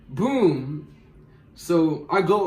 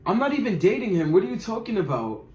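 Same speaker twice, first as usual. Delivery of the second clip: higher, puzzled mock voice; confused Tommy; 4 semitones higher than usual. Tommy answers the accusation, higher, mock-confused. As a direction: play the confused guy, pitched up. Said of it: "He was like".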